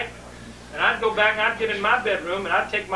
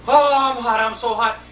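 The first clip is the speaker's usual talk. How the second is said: hot dad; 4 semitones higher, 4 dB louder than usual. Retold or imitated. Dad complaining of heat.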